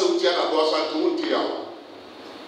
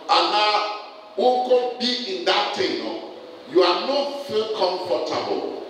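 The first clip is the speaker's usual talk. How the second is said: raised, emphatic preacher's voice; impassioned preaching; 7 semitones higher than usual. Real, not acted. Preacher warning congregation about choices, impassioned preaching. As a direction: press each point on the congregation.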